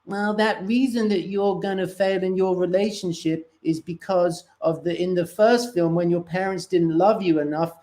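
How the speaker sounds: a hint of a smug little nerd explaining; therapist kid voice. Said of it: "he's like".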